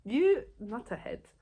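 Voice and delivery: slow, drawn-out teasing insult; child mock-scolding the film villain. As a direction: tease the villain like a cartoon baddie. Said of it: "And I was like".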